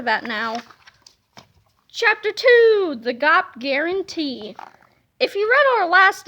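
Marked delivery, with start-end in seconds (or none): 1.9-4.5 slow grand chapter title. Acted. Chapter announcement.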